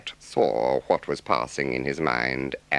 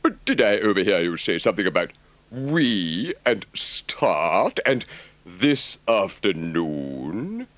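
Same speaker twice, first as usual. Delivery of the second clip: hushed, slow, doubtful Rat; questioning in disbelief under his breath; sceptical whisper; 6 semitones higher, 5 dB louder, slower than usual. A narrator's reading. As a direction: Rat querying Toad's plan in a hushed voice. Rat's sceptical query.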